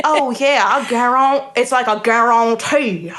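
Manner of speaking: imitated Louisiana Creole, from the bottom of the voice; lightly hammed-up Louisiana Creole accent. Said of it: "from the bottom of your voice".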